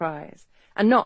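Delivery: ordinary delivery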